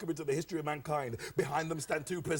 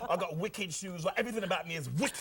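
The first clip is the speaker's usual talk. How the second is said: Cockney hustler. Acted. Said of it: "Delbert Wilkins talks like this".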